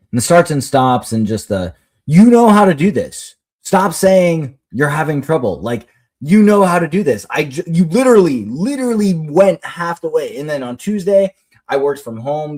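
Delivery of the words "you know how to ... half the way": retold exasperation, higher, punched opening; exasperated parent. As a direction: insist like a parent who has had enough. Parent retells urging struggling child.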